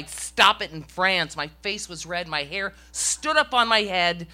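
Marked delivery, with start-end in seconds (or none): 0.0-0.7 retold yell. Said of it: "They probably heard my".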